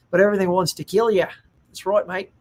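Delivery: lightly put-on Aussie accent; Australian accent. Joking about Australia's deadly wildlife, Australian accent. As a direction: toss it off in a mock Australian accent.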